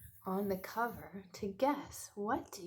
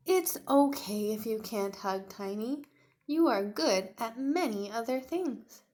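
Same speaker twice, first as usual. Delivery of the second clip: lightly voiced mother; 7 dB louder than usual.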